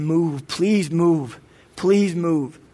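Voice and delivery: very slow, begging prayer; desperate pleading prayer. Retold or imitated. Father praying over his wife's belly, slow desperate plea. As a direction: plead with each word, drawn out.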